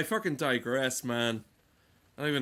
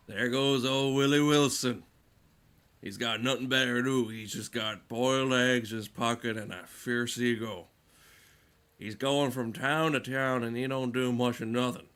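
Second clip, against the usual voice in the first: folksy townsman. Retold or imitated. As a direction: play the local busybody pointing out the drifter. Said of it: "You know those stories you have of".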